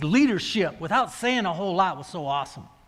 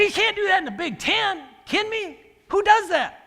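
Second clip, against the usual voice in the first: incredulous coach; 8 semitones higher than usual. Retold or imitated. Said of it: "I go".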